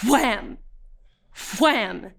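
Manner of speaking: sudden, punched "wham"; imitated club thuds. Detainee imitates club blows heard from the cell, punched thuds. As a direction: punch out each blow, then stop. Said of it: "you could hear the, the thuds".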